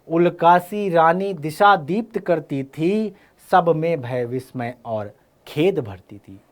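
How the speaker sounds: slow verse, starting high and settling; declaimed poetry, unhurried; poem recitation. Acted. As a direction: recite the couplet in measured phrases. Recites the poem being taught.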